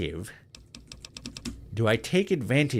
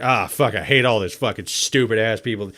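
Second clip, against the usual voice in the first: off-the-clock guy; 5 dB louder than usual. Retold or imitated. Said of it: "off the clock sounds like this".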